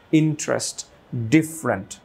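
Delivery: ইন্টারেস্ট as "IN-trest", ডিফারেন্ট as "DIF-rent"; two syllables each for ইন্টারেস্ট and ডিফারেন্ট; elided forms. Shown as a demonstration. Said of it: "শোয়া সাউন্ডের মতো".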